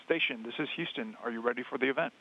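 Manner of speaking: crackly radio transmission; over a space radio link; sci fi communicator. Real, not acted. Mission control radio loop.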